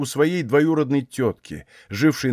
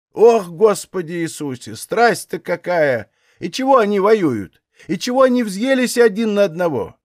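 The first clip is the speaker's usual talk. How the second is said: put-on old aunt; 6 semitones higher than usual. A narrator's reading. Old aunt at the window, scared by the shelling, wailing. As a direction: lament like a frightened old woman.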